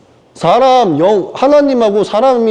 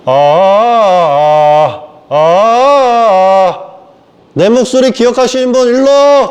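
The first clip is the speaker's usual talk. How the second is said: drawn-out "아" like testing a microphone, then a loud call; mock mic check; 4 semitones higher, 3 dB louder, much slower than usual. Preacher testing a mic, then calling the faithful to come forward. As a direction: stretch each syllable, then announce loudly.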